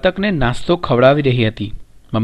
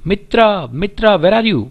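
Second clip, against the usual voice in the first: higher-pitched, mildly raised storytelling call; crying out loudly; 6 semitones higher, much slower than usual. A narrator's reading. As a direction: call out for a missing friend, only a little louder. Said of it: "Reshma cried loudly". (થોડા ઊંચા સ્વરે બૂમ)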